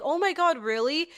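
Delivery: imitating people's shocked "oh my God"; high, amazed gasp of disbelief; mock surprise. People reacting to hearing she can't swim, mock surprised. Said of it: "people will be like".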